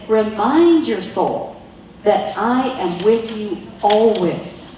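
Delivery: slow, steady reassurance; God reminding the listener slowly; slow reassuring. Acted. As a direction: reassure them, unhurried. God's words voiced slowly.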